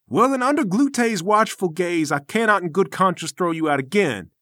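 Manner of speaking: lightly voiced lofty master; a hint of preachy self-importance; pompous temple master. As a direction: defend your noble discipline with affronted dignity. Game master voices Namir.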